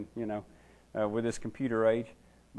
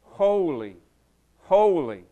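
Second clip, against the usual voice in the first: measured, higher proclamation, falling on each word; solemn threefold acclamation; imitated angelic cry; 4 semitones higher, 4 dB louder, much slower than usual. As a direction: cry it out reverently, pausing between each. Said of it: "stand before the throne of God and cry".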